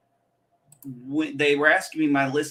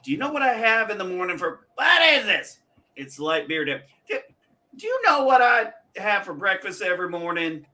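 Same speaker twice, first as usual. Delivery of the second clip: lightly acted old man, pitched up; movie old man; 5 semitones higher than usual. Friends recalling a scene from Grumpier Old Men, lightly hammed-up old man. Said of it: "what was that scene from Grumpier Old Men".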